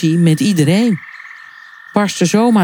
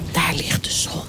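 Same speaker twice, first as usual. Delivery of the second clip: very soft, secretive whisper; 9 dB quieter than usual. A narrator's reading. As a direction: point it out under your breath. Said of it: "fluisterde de eekhoorn". (zacht fluisteren)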